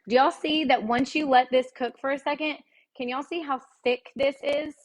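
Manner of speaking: talking while chewing; mouth full. Real, not acted. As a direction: speak through a mouthful. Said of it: "I'm chewing, like, talking with my mouth full".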